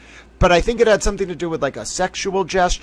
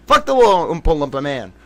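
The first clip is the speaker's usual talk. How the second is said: higher, louder indignant rant; mock outburst; 9 semitones higher, 6 dB louder than usual. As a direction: vent at them like you're fed up. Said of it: "I'm like".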